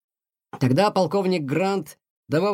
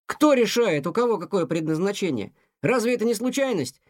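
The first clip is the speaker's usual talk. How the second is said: put-on higher, a mildly indignant teen; young cat protesting to his mother, mildly indignant; 4 semitones higher than usual. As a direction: protest it, a touch of outrage. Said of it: "возмутился Тихон".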